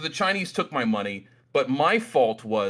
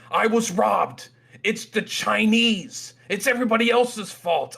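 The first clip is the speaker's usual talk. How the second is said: hammed-up indignant blaming, pitched way up; pissed off; 9 semitones higher, 4 dB louder than usual. Drained trader complaining to his friends, hammed-up pissed off. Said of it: "I'm pissed off. I'm talking to my friends".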